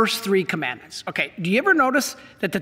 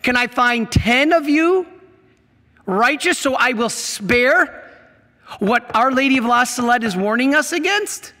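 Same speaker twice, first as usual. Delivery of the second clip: voice of God; 3 semitones higher than usual. Retold or imitated. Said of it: "God says".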